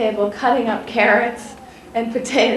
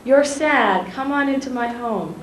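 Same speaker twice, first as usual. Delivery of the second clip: Maya Angelou welcoming; 4 semitones higher than usual. Retold or imitated. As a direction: open the door and draw the child in, lightly acted. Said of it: "and says".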